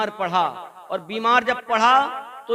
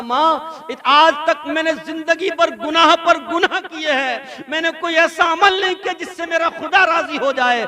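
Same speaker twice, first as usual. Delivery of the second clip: weeping son's plea; 3 semitones higher than usual. Acted. Dying son begs his mother, weeping and raised. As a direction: cry out your guilt to your mother. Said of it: "तब मेरे बच्चे ने उस दिन मुझसे कहा था".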